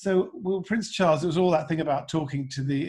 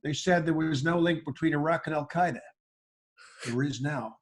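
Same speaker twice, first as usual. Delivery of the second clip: George W Bush impression. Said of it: "license to say".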